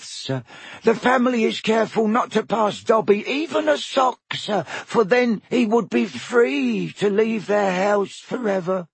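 high, eager elf squeak; house elf voice. Acted. Elf answering Harry, high squeaky voice. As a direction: pitch it up like a nervous house elf. Dobby voice.

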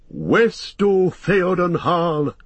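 high, drawn-out rallying cry; ringing heroic acclamation; cried out. A narrator's reading. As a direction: call it out slowly and high, hailing your king. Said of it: "cried Éomer".

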